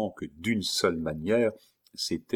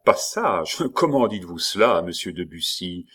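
mocking laugh; 4 dB louder than usual. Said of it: "dit Montsoreau".

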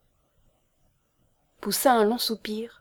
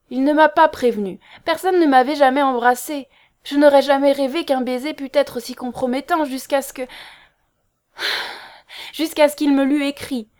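high, loud, distraught outpouring; sobbing; 5 semitones higher, 7 dB louder than usual. A narrator's reading. Girl explaining the compromising kiss, sobbing. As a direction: pour it out as if sobbing. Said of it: "sanglotait Loretta".

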